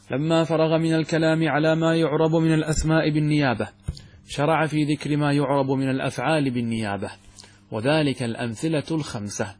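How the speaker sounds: level, even-toned recitation of a classical text; formal text reading. Acted. Teacher reads Ibn Aqil's commentary to students, formal recitation. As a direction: read it out in measured, fully vowelled Arabic.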